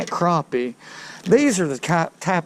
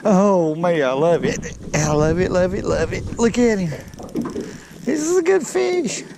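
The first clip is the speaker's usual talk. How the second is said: thrilled squeal as the fish shows; real excitement; 4 semitones higher than usual. Real, not acted. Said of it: "I'm excited".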